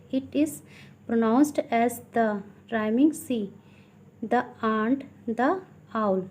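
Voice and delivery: slow, deliberate classroom reading; teacher slowly dictating from a textbook; textbook read-aloud. Acted. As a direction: read it out word by word for pupils. Reads textbook rule aloud.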